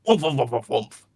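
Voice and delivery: rhythmic woomph laugh, lightly voiced; hint of an evil coffin laughing; maniacal coffin laugh. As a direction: cackle like a possessed coffin. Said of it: "letting out a maniacal coffin laugh".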